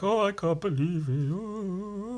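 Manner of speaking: high, hammed-up delight melting into an ooh; overjoyed disbelief. He's happy as Larry, mock-overwhelmed delight. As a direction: play a cultist overcome with joy. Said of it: "he's happy as Larry".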